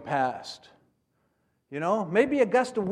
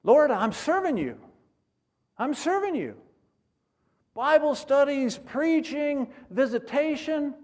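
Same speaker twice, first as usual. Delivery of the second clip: raised pitch, lightly voiced self-assured believer; a hint of a busy man listing his service to God; a touch of a complacent believer reminding God of his good works; 8 semitones higher than usual. Voicing the man's complacent prayer.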